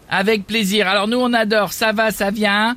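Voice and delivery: stifled giggles. Acted. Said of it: "arrêtez de rire".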